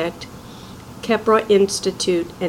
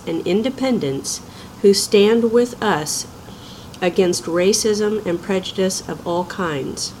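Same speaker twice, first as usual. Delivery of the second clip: measured, earnest formal statement read. Acted. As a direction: read it like an official public declaration. Reads organization's formal statement.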